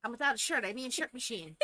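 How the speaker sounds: high, loud startled reply; mock-surprised neighbor; playful neighbor voice. Acts out the neighbor scene.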